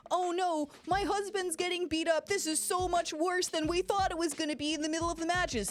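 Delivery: a hammed-up fretting wife watching the fight; worried wife. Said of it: "to be like".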